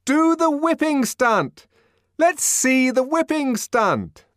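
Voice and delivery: high, loud, slow egging on; crowd demand. A narrator's reading. Sightseers demanding the whipping stunt, loud eager goading. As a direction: goad him into the stunt. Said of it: "voices confusedly".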